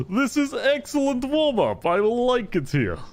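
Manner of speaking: big, slow, high-pitched character voice; drawn-out, relishing battle-lover's voice; Qatari warrior. Acted. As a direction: savour the fight, slowly, in character. Game master voices the hulking warrior.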